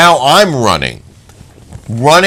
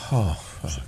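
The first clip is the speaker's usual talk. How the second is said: deflated curse; 8 semitones lower, 15 dB quieter than usual. Retold or imitated. Retold quiet despair.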